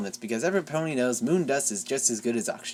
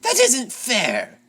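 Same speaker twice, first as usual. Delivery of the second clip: mild mock shout; 10 semitones higher, 5 dB louder, much slower than usual. A narrator's reading. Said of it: "Chrysalis shouts".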